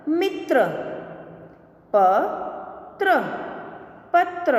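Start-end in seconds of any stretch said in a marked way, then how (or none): 1.9-3.1 slow, each sound drawn out, rising at the end; slow drawn-out reading. Shown as a demonstration. Teacher slowly sounding out a word for students, drawn out. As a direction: stretch the word slowly for the class. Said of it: "के उदाहरण हम देखें".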